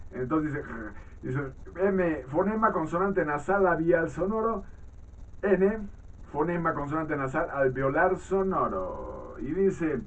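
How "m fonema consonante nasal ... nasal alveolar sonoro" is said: higher, measured reading voice; textbook read-aloud. Acted. Teacher reads phoneme definitions to students, measured read-aloud. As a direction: read out a phonetics text for a class.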